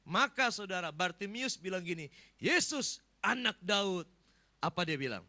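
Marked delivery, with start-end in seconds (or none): 2.4-4.0 loud acted call for attention; beggar's raised cry. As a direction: call out over a crowd. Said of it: "saudara, dia teriak".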